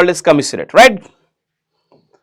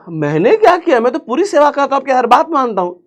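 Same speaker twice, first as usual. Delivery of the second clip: father protesting; 4 semitones higher, 3 dB quieter than usual. Retold or imitated. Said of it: "पापा मेरे कह रहे".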